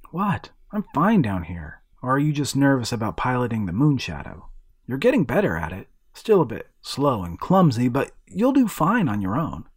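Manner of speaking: boy reassuring his golem, lightly voiced; boy hero.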